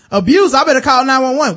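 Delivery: high, loud mock panic over abuse; mock alarm. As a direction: squeal it like a shocked teacher. Mock teacher alarmed reaction.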